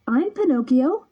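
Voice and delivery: put-on high, eager boy voice; eager puppet. A narrator's reading. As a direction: announce yourself eagerly.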